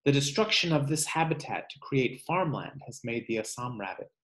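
measured read-aloud voice for a class; reading to children. Acted. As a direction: read the book aloud to kids, slowing on each animal's name. Teacher reads book aloud.

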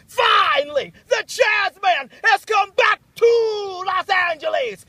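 big slow announcer shout; hype shout. Real, not acted. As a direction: proclaim it loud and slow.

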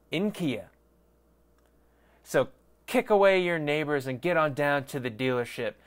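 hammed-up announcer ad read. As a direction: sell it like a cheesy radio spot. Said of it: "That was a shit ad".

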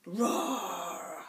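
a cute small mock roar; gentle pretend roar; little dinosaur roar. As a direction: roar like a tiny shy dinosaur. Shy dinosaur roars.

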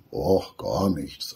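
slow, feigned innocence; sly, innocent. Acted. The fox answering Wudi, slow and sham-innocent. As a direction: play it falsely sweet. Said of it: "lächelt dabei ganz scheinheilig".

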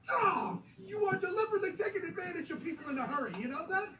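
exasperated laughing. Acted. Customer rushed by pricey courier.

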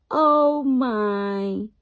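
a big storybook "oh my"; surprised gasp. A narrator's reading. Reader gasps to the listening child, mock surprise.

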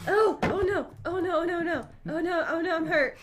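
low, soft string of oh-nos; worried muttering. Real, not acted. Player hurt in the fight, quiet worried muttering. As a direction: fret under your breath as it goes wrong.

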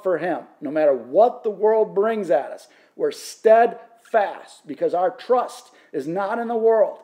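emphatic preacher's declaration, leaning on key words; fervent pulpit delivery; impassioned preaching. Real, not acted. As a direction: preach it with rising conviction, then settle at the close.

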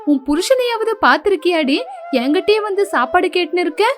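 mother-in-law berating her lazy daughter-in-law, rising scold. Acted. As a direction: tell off the lazy bride, pitch rising.

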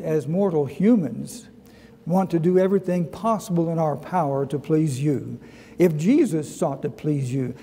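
pastor leading the church in prayer. Real, not acted. Leads the congregation in prayer.

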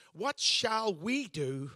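drawn out, each word weighed; the Pharisees asking earnestly, mocked gently; slow mock Pharisee question. Pastor voicing the Pharisees, slow and mock-earnest. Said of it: "they asked a question".

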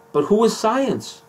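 high, slow mock-sage questioning; Deepak's challenge. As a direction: ask it like a teasing guru. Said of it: "Deepak gets him on this hilarious point".

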